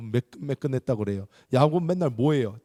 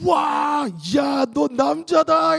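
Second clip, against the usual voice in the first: much higher and louder, cheering; rowdy boys hailing a new man; excited shout; 13 semitones higher, 5 dB louder, much slower than usual. Retold or imitated. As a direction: shout it like thrilled schoolboys. Boys cheering over chest hair.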